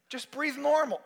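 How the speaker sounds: acted nurse coaching; insistent instruction. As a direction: tell the patient firmly.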